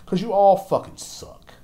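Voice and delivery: ordinary talk, nothing marked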